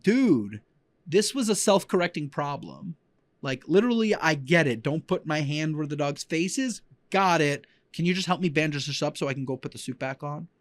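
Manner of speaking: fed up, talking back to the boss; exasperated retort. Retold or imitated.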